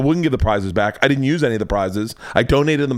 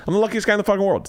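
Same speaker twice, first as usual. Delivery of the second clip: 1 excited brag; 6 semitones higher, much faster than usual. Real, not acted. Bragging about luck, fast.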